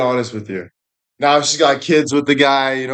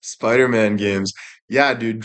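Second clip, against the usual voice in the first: ordinary talk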